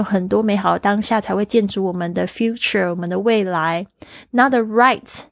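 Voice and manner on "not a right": lifted quote. Shown as a demonstration. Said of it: "not a就是不是一个right".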